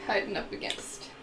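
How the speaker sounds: normal talking voice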